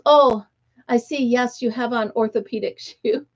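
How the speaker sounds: lightly imitated British woman's accent. Older woman to a stranger about her shoes, mock British accent. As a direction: put on a mild British accent. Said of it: "she had this British accent".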